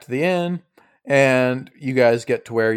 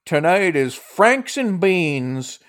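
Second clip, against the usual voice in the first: put-on higher old-lady voice, slowing for the dish; old lady innkeeper; 5 semitones higher, slower than usual. Innkeeper announcing tonight's special, higher old-lady voice. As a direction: announce it slowly like an old hostess.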